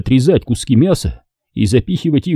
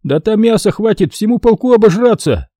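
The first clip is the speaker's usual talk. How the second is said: a raised, needling Tajik soldier voice; Hasan objecting; 11 semitones higher than usual. A narrator's reading. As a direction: object with mock outrage as Hasan. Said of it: "возразил Хасан".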